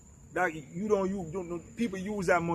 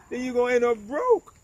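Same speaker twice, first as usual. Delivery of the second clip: punchline shout; 8 semitones higher, 5 dB louder than usual. Real, not acted. Punchline warning to viewers.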